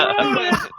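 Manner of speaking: high, slow, hammed-up screaming fan, laughing through it; mock screaming fan. Crazed fan outside the buses screaming he wrote a song. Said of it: "He was screaming at the top of his lungs".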